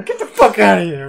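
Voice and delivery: mock yell. Acting out hitting the intruder.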